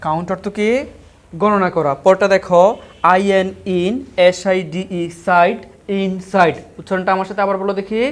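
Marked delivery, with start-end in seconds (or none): 3.1-6.6 teacher's chunk-by-chunk spelling, pausing before ইনসাইড; ভেঙে ভেঙে বানান. Shown as a demonstration. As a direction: spell ইন and সাইড as two separate chunks, then join ইনসাইড. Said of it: "ভেঙে ভেঙে বানান করো". (ভেঙে ভেঙে বানান করে ইন আর সাইড আলাদা, শেষে ইনসাইড)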